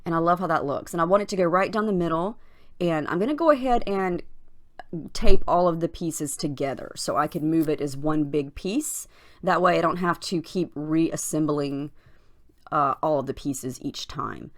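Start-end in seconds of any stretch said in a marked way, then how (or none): 2.8-14.5 hoarse, scratchy voice; scratchy morning voice. Real, not acted. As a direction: talk with a scratchy just-woke-up voice. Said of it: "Sorry if my voice is scratchy".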